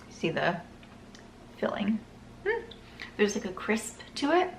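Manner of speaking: eating while talking; mouth full. Real, not acted. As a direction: talk through a bite of chocolate. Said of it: "My mouth is filling with saliva".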